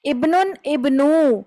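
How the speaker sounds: ابنن، ابنو chanted slowly in Quranic style; slow teacher drill; recitation demo. Shown as a demonstration. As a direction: model ابنن then ابنو for students to copy. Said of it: "یہ لفظ ہے ابنن".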